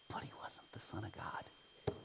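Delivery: hushed, whispered objection; whispered aside. Acted. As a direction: drop to a whisper for the doubter's caveat. Voicing a doubter's dismissive claim.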